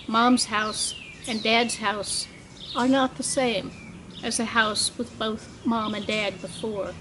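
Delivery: measured poetry recital, phrase by phrase; poem reading. Acted. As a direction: read it as a poem, pausing at line breaks. Poet reads own poem aloud.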